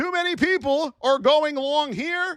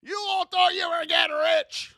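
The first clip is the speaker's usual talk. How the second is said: raised mocking call; 3 semitones higher than usual. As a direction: rib the crowd for thinking they'd get rich. Mocking traders' Oracle hopes.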